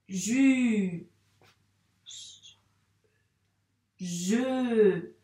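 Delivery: slow, separate syllable sounds; sounding out syllables. Shown as a demonstration. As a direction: say each syllable clearly and alone. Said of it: "à haute voix, je vais dire ja".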